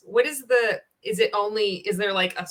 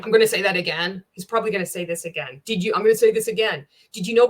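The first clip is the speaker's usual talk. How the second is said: hammed-up coach repeating himself, a bit louder; mocking the coach; 4 dB louder, faster than usual. Host mocks the coach for repeating his point, hammed-up. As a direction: parody his pitchy sales repetition. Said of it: "and repeat it again".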